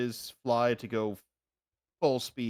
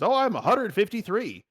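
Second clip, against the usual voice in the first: higher, lightly voiced kobold; kobold's casual boast; 10 semitones higher, 3 dB louder than usual. Kobold telling the party its age, lightly voiced higher. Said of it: "my kobold and he says".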